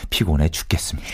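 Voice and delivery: low, hushed, drained complaint; acted exhaustion. Nagged husband confiding to radio hosts, drained and hushed. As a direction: let the voice sink wearily. Husband's letter, worn out by nagging.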